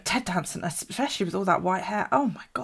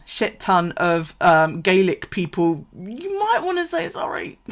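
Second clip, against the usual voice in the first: mock telling-off; 6 dB louder, slower than usual. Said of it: "no, the other one".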